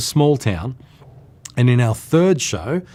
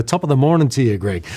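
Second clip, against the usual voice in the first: put-on Irish accent; 3 semitones higher than usual. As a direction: imitate a hint of an Irish accent.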